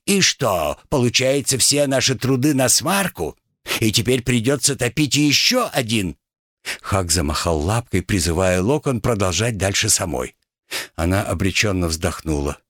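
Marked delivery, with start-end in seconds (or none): 0.0-6.2 playing the gunner. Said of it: "Лагард спросил".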